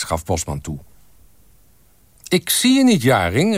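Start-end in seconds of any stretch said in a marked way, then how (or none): 2.3-3.6 high, louder call. A narrator's reading. Photographer to a half-hidden colleague, calling out. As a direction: shout it over to someone at the back. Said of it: "riep Wim Bosman".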